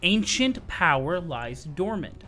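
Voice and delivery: dramatic trailer read. Acted. Reading the raid description to viewers, ominous narration. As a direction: read it like a dark game teaser.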